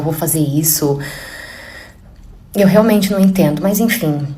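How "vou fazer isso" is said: breathy unvoiced whisper, like a secret decision; whispered thought. Imagining the mother-in-law deciding in secret, whispered. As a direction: whisper it as her hidden plan.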